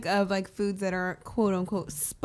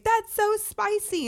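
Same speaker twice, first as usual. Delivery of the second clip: high, slow mock complaint about the spice; mock whiny friend; 11 semitones higher, slower than usual. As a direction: imitate the friend whining, pitched up. Friend quoted tasting food.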